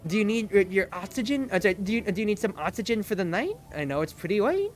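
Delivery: lightly voiced chipper clerk; a hint of cheerful shop-counter service; customer service mode. Cosplayer in character offering the fan oxygen, in polite service mode. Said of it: "almost like customer service mode on".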